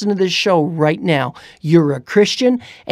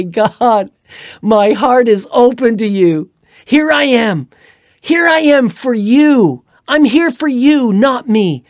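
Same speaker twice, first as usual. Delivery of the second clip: fervent prayer; 4 semitones higher, 5 dB louder than usual. Acted. Preacher voices a fervent prayer.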